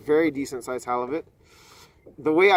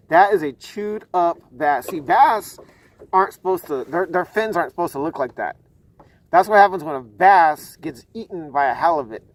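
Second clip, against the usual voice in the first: excited; 2 semitones higher, 6 dB louder than usual. Real, not acted. Excited showing chewed bass.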